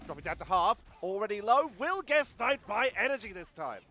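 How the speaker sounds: excited caster, voice lifting; live esports play-by-play. Real, not acted. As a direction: call the action with rising urgency.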